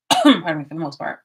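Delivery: choking on a sip of water; coughing up water. Real, not acted. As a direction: clear the throat, water went down wrong. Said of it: "This went down the wrong pipe".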